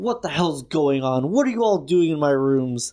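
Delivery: superior, haughty, arrogant demanding tone. Narrator voices Ambrose racing up the stairs to find everyone in his rooms, arrogant Ambrose voice. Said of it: "in that particularly arrogant voice of".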